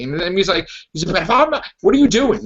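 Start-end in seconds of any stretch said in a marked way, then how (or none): 1.2-2.4 high-pitched indignant retort, acted out; half-serious yell of protest; mock yelling. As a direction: imitate someone yelling back, pitched up. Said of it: "he's, like, yelling at her".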